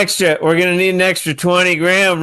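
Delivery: a hint of put-on contractor voice; lightly voiced contractor. Acts contractor announcing extra costs.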